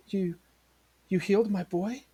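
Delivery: hesitate, then rise in amazed hope; astonished mother. Acted.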